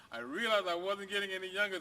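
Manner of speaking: lightly voiced dog. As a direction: say it as the old dog telling his tale. Dog's line redone after laugh.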